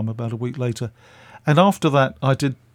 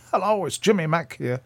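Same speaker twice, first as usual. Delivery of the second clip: lightly attempted Scottish accent, pitched up; 6 semitones higher than usual. Radio man phoning the storyteller, in an imitated Scottish accent. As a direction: have a go at a Scottish phone greeting. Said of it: "That's a Scottish accent, by the way".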